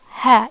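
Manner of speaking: loud "ha" with an open H; plain English H. Shown as a demonstration. Teacher showing the H to avoid, plain open ha. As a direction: say "ha" with an ordinary H, throat relaxed. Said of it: "it's different from the ha, the H".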